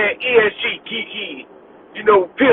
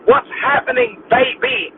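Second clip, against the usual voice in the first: quiet mock greeting; slower than usual. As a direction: hush the slang greeting down.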